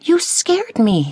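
high, startled small caterpillar. A narrator's reading. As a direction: jump a little and breathe it out. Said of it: "Sylvia said".

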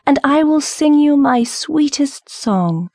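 high, slow, singsong nightingale; pleading bird, pitch lifted right up; cried plea. A narrator's reading. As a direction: draw the promise out high and imploring. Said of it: "she cried".

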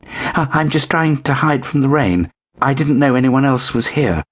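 small scared kitten voice; timid kitten. A narrator's reading. Kitten apologising to the scary cats.

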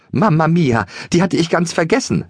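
high Italian-flavoured moan of dismay; wailing Maria. A narrator's reading. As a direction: throw up your hands and wail it. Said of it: "jammerte Maria".

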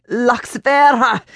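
a high, slow cry; scream. A narrator's reading. Old woman rising by the water and screaming the name. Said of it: "she screamed".

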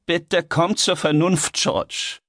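high, drawn-out appeal; slow, strained pleading; urgent plea. Acted. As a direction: beg him to see sense. Heinrich pleads with raging friend.

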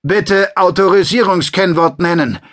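a disembodied voice demanding the password; voice from nowhere. Acted. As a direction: speak like an automated security system. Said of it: "meldete sich eine Stimme aus dem Nichts".

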